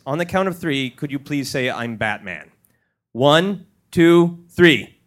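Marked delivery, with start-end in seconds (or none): 1.7-2.5 low, gravelly Batman growl, kept soft; a quiet hint of the gravelly Batman. Shown as a demonstration. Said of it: "deep, gravelly Batman voice".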